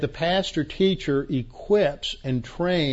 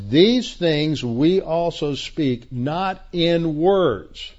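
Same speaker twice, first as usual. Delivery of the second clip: "These things we also speak not in words" read slowly, each word weighted; slow emphasis; 3 semitones higher, much slower than usual. Shown as a demonstration. Preacher reading Paul's verse to the class, slow and emphatic. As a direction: read it like italics on the page. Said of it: "I put that in italics to emphasize it".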